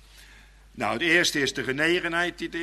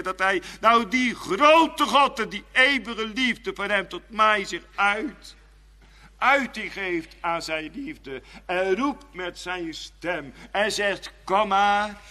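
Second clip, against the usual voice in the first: 1 slow; 7 semitones higher, slower than usual. Real, not acted. Slow building sermon climax.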